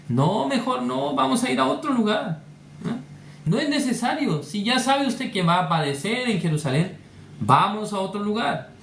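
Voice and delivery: a hint of a worried adviser talking Jesus round; apostle Peter. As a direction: mildly plead with the master to go elsewhere. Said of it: "el apóstol Pedro quiere aconsejar al Señor".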